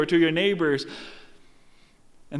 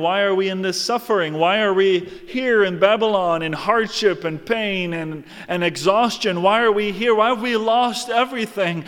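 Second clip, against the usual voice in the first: anxious crowd; 3 semitones higher, 4 dB louder than usual. Acted. People voiced wondering in exile.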